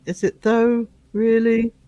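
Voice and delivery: quoting own doubtful catchphrase; sceptical catchphrase. Retold or imitated. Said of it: "I keep finding myself saying".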